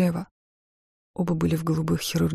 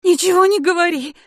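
much higher, louder scream; shout; 13 semitones higher, 7 dB louder than usual. Acted. Wife screaming at her husband to stop.

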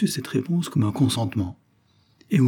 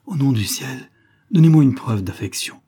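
rising, louder solemn plea; with emphasis; 4 semitones higher, 5 dB louder than usual. Acted. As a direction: beg with dramatic emphasis, swelling to the end. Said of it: "lui dit-il avec emphase".

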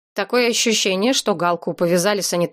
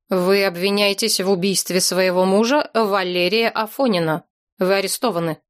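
official tone. Acted. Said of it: "официальным тоном произнёс".

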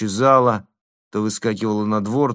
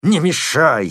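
louder, higher fierce bark; fierce snap; 6 semitones higher, 6 dB louder, slower than usual. A narrator's reading. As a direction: snap at her savagely. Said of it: "свирепо вскинулся".

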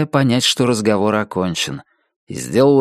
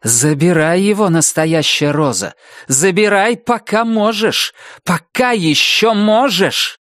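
high, urgent, slowing warning; alarmed urgency; 8 semitones higher than usual. Acted. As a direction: warn her in rising alarm. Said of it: "смятение и даже тревога". (в смятении и тревоге)

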